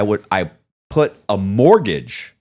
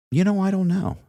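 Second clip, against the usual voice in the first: mock clueless shrug; 10 semitones higher than usual. Officer shrugging it off, retold.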